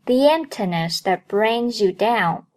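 "The emptiness that brings you down" joined up, y glide after "The"; "The emptiness that brings you down" as one connected phrase; linked reading. Shown as a demonstration. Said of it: "所以前半句连起来再读一遍".

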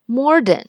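modern said with an R on the first syllable, mor-duh; wrong old way. Shown as a demonstration. Teacher demos her old wrong modern. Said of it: "我以前总把它读成".

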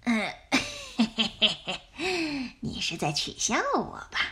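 soft, chuckling mock humility; falsely modest. A narrator's reading. Flattered wolf answers the fox, falsely modest. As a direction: chuckle coyly, pretending to be humble. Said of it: "假作谦虚地回答".

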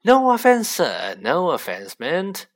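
high, loud start dropping into a drawn-out finish; flustered, fawning backtrack; hasty apology. A narrator's reading. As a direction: rush to placate an offended customer. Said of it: "Mister Borgin said quickly".

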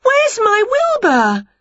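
high, slow, drawn-out wail. A narrator's reading. Winnie demands her missing cat, high slow wail.

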